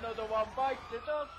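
gloating shout. Real, not acted. Taunting a banned player.

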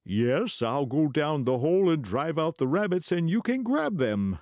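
high scheming weasel; sly weasel voice. Acted. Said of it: "said the queer animal".

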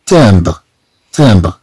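low, falling تامبر, A in the first syllable; correct French pronunciation. Shown as a demonstration. Teacher repeats how we read it here, correct French vowel. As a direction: say تامبر with an open nasal A. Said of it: "إذا نقرأ هنا".

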